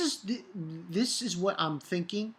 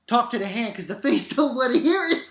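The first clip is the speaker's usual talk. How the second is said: sassy talk to the hand, a bit fast; sassy catchphrase; 5 semitones higher, 5 dB louder, faster than usual. Pretend. First botched try at the sassy catchphrase. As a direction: brush them off with attitude. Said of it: "I didn't do it right".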